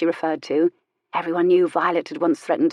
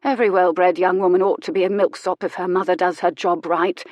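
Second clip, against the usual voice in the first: authoritative. Acted. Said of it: "she said authoritatively".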